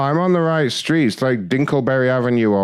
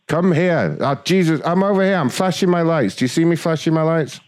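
exasperated; 5 semitones higher than usual. Acted. Driver calling out exasperated.

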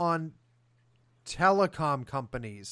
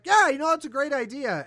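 high, loud mocking cheer that trails down; mock eager agreement; 8 semitones higher, 5 dB louder than usual. Companies mocked as cheerfully agreeing to black out Russia, mock eager. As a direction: ham up a gleeful yes-man. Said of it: "for them to just basically be like".

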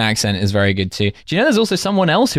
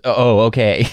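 puzzled American reply; slower than usual. Retold or imitated. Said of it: "he just sort of gets the gist and goes".

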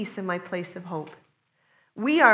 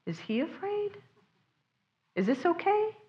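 put-on higher, soft worried child voice; child's anxious question; 7 semitones higher, 7 dB quieter than usual. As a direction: ask like a scared kid looking at dad. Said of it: "and going".

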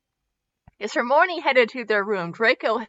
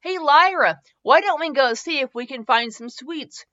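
playful grandpa; 6 semitones higher, 4 dB louder than usual. A narrator's reading. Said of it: "Lucius grinned at his granddaughter".

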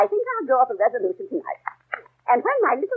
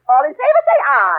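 calling the vote; 4 semitones higher, 3 dB louder than usual. Acted.

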